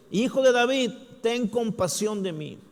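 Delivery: high, loud plea. Retold or imitated. Bartimeo shouting over the crowd to Jesus. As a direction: cry out above the crowd. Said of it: "gritó aún más fuerte".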